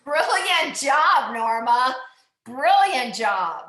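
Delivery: loud, slow, drawn-out cheer; loud praise. Real, not acted. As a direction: belt out the praise to the rider. Instructor praising rider's heart rate.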